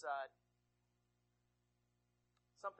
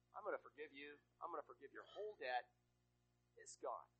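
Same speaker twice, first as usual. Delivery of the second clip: gentle king; 4 semitones lower than usual. Acted. King forgives whole debt.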